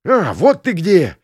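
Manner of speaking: loud gruff yell across the room; angry shout. Acted. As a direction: shout it out as he barges in. Kuker bursts into tavern.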